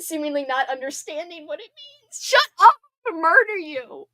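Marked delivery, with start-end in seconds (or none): 2.2-2.7 high, loud embarrassed shut up; laughing shout. Real, not acted. Streamer yelling at teasing chat, embarrassed. 3.1-4.1 mock threat broken by laughter; laugh-crying threat. Real, not acted. Streamer threatening chat while crying with laughter. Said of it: "I'm crying".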